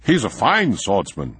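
bright, eager praise; a touch of eager pride; enthusiastic. A narrator's reading. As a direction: sell his friend with enthusiasm. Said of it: "said von Eagelfeld enthusiastically".

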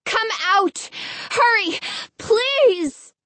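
high, urgent shouting upward; calling up to window. Acted. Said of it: "She shouted up to the window again".

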